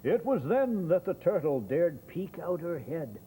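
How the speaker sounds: lively rhyming read-aloud; story narration. Acted.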